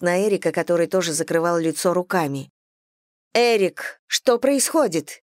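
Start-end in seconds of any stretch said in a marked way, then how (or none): 3.3-5.2 strict, demanding question; stern demand. Acted. Sister sternly demands an explanation from her brother, stern. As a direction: press him for an answer. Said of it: "строго и требовательно обратилась она".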